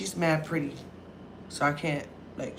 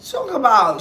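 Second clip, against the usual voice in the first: high, slow, laughing; 14 semitones higher, 6 dB louder, slower than usual. Retold or imitated. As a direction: laugh while reassuring. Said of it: "she laughing at her".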